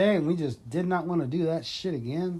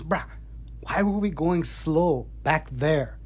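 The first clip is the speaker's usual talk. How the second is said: slower repeat; slower than usual. Retold or imitated. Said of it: "he goes".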